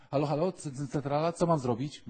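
high, loud calling into a bad line; phoning headquarters. Gideon calls heaven's switchboard, high and loud. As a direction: shout down the phone.

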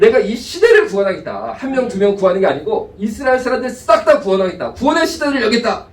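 loud, high triumphant proclamation; proclaiming God. Pretend. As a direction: ring out God's promise. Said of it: "이렇게 결정을 하십니다".

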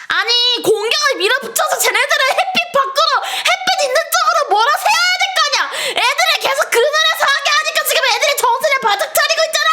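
high laughing rant; frustrated yelling. Real, not acted. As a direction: yell your tactics at the team. Yelling tactics at team. (답답해서 소리침)

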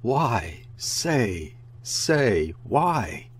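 mother screams at her daughter, lightly voiced. A narrator's reading. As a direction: cry out the questions at her in desperation. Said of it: "and screamed at her daughter".

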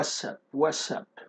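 "what's up" run together as wassup, no t; American casual pronunciation. Shown as a demonstration. Teacher shows how Americans say it, "what's up" as wassup. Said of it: "الأمريكان أحيانًا بيقولوها".

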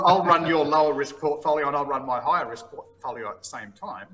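chuckling as he gives in to his partner; laughing. Real, not acted.

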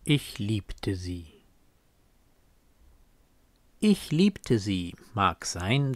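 aufrichtiger, leichter Gedichtvortrag; leichter Gedichtton. Acted. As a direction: mit sanft fallenden Zeilenenden rezitieren. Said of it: "auch einen so leichten Ton". (leicht und aufrichtig vorgetragen)

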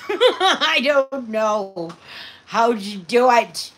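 high, loud, slow, laughing through the words; laughing flustered quote. Retold or imitated. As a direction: play the giver overwhelmed while laughing. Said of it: "they go".

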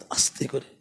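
dropped low and soft, almost under the breath; mock soft protest. Shown as a demonstration. Mocking a soft-spoken protest, said low and hushed. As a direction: say it as quietly as the protest was. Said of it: "আস্তেই করে হয়েছে প্রতিবাদ".

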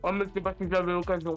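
talking through a mouthful; words round a bite of food; bouche pleine. Real, not acted. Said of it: "Vas-y, parle la bouche pleine". (parle la bouche pleine)

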